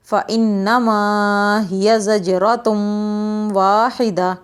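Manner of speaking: slow, measured tajweed recitation; Quran recitation. Shown as a demonstration. Teacher reciting for children, measured and clear.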